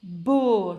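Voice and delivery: "beau" alone, drawn out on the vowel; isolated syllable. Shown as a demonstration. Teacher naming the rhyme, "beau" drawn out. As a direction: hold "beau" as a single stretched syllable. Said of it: "C'est la syllabe".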